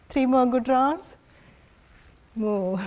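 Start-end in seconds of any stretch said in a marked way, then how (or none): 2.3-2.8 low, soft moo; cow sound. Shown as a demonstration. Teacher prompting students to join in, low cow moo. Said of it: "the cow sound".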